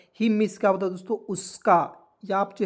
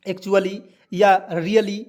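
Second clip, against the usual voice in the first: slow English demo; 4 dB louder, much slower than usual. Shown as a demonstration. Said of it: "इसका English भी मैं बोल दे रहा हूँ".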